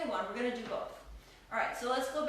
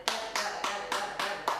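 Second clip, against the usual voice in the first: quick rhythmic count; 2 semitones lower, 3 dB louder, faster than usual. Shown as a demonstration. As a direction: rattle off quick da-da-das for the step's rhythm. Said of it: "really kind of a quick step".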